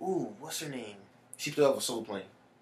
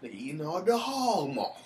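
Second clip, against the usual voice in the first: ordinary talk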